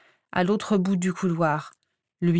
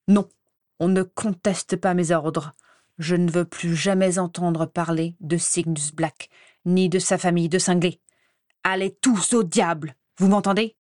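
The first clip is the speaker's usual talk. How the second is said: furious outburst. Acted. Croupton furious shouts at everyone.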